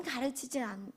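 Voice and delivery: normal talking voice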